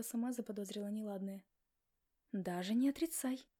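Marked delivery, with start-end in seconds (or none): 2.3-3.5 stern. Acted. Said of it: "строго предостерегла она".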